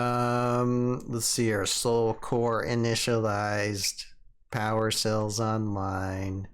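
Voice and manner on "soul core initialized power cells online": slow, even machine voice; robot voice. Pretend. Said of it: "You gotta do the robot voice".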